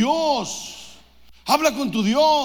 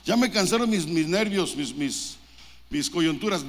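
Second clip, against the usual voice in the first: mock worn-out groan, fading; 4 semitones lower than usual. A gym-goer whining about his aching joints, fading off. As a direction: let the complaint sag away to almost nothing.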